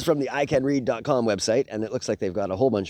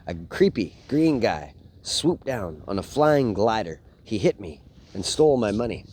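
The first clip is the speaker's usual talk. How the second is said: put-on reading a picture book aloud to kids; lively bedtime story read. Dad reading a Spider-Man book to his boys, storytelling voice.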